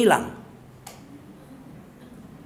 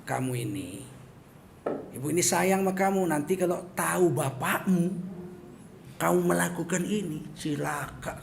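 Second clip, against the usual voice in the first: restrained mock warning from a mother; threatening mother; 3 semitones lower, 6 dB quieter than usual. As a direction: voice a mother's measured threat to her child. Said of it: "ibu bisa ngancam". (ibu mengancam dengan nada tertahan)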